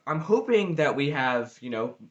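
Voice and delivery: talking through hiccups; speech broken by hiccups. Real, not acted. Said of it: "I have the hiccups".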